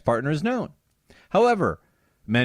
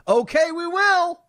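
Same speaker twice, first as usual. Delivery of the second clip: much higher, slow mocking yell; retold yell; 13 semitones higher, slower than usual. Beto supporter yelling back at Cruz, mocking high yell. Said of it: "yells back".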